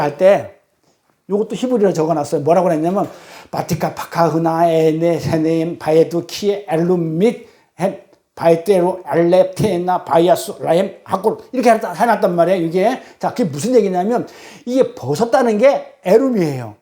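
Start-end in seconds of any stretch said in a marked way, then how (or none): 3.5-11.4 slow, syllable-by-syllable Hebrew recitation; Hebrew reading. Acted. Preacher reads out written Hebrew verse, slow recitation. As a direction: sound out the Hebrew deliberately.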